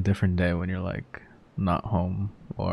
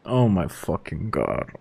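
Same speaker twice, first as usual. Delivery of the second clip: mortified; 2 semitones lower than usual. Real, not acted. Caught, mortified.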